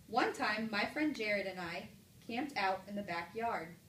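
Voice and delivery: plain statement, falling to a close on "backyard"; period reading. Shown as a demonstration. Teacher compares punctuation marks for class, even falling statement. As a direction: read it evenly and let "backyard" drop. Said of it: "read the sentence using all different types".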